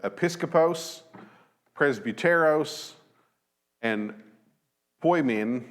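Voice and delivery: a non-native reader trying the Greek episkopos, presbyteros, poimen; careful Greek words. Shown as a demonstration. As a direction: read episkopos, presbyteros and poimen as carefully spelled-out Greek, each word set apart. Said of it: "we'll try our best here".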